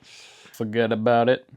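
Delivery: "Forget about it" in a lightly voiced mobster accent; mock Italian New York accent. Friend quoting the wiseguy line, mock Italian New York. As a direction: wave it off like a wiseguy. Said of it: "Italian one people make fun of".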